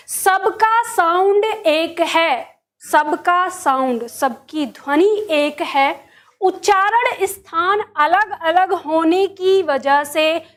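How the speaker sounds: drawn-out, deliberate words; very slow emphatic restating of a rule; slow, insistent repetition. Real, not acted. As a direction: drive the point home word by word. Teacher repeats disputed rule insistently.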